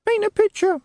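a tiny creature piping from a box; very small voice. Acted. Tiny imp answering the sergeant, squeaky high voice.

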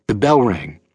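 plain reading voice

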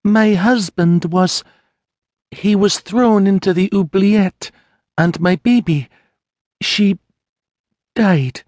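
high, slow voice breaking with grief; a widow forcing out the worst news; grieving peasant woman. Acted. Mary tells Sienna of her husband and baby, tearful and high.

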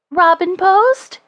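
high, drawn-out rising question; slow, high-voiced puzzlement; puzzled interruption. A narrator's reading. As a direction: echo it in bafflement, pitch climbing.

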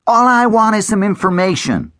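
plead, hands up and scared; nervous boy. A narrator's reading. Boy, gun pointed at him.

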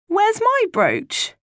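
put-on high, slow, wailing child's plea; tearful child. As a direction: cry it out like a hurt little girl. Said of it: "tears running down her face".

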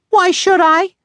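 high, bratty little sister. Acted. Sister voiced in story.

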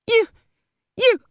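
mild spat words; half-hearted angry spitting. A narrator's reading. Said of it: "she spat".

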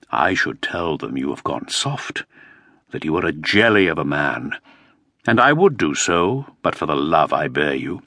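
a hint of a mocking friend; scornful courtier. Topcliffe's scornful low voice.

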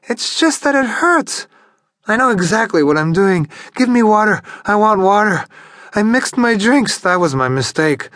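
high, tipsy geisha voice, insisting and whimpering; a drunken woman begging for water; drunk woman, complaining. Acted. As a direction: protest you are not drunk, pitched high and loud.

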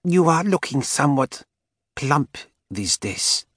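put-on high, slow spiteful old woman. A narrator's reading. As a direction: drag out the insult slowly. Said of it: "Helena said".

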